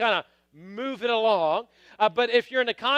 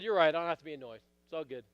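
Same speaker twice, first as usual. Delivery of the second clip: low, soft conceding; retold calm concession, lower and softer; mild backing down; 5 semitones lower, 6 dB quieter, faster than usual. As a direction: give in quietly, voice dropping away.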